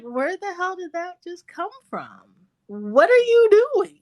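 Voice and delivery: shocked at the tantrum out of nowhere; stunned parent. Retold or imitated. Mom baffled by her daughter's sudden tantrum, rising outcry. Mother reacting to daughter's outburst.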